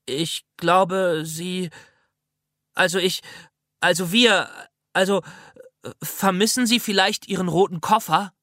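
unsure, searching for words; hesitant stammering. Acted. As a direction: stumble over the words nervously. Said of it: "weil ich nicht wusste, was ich sonst sagen sollte".

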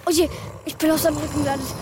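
fast, startled blurt; surprised. Acted. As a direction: rattle it off in shock. Child lands on beast.

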